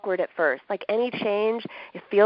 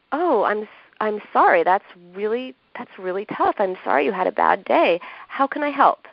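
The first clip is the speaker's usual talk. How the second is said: kind friend voice. Shown as a demonstration. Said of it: "You would say something like".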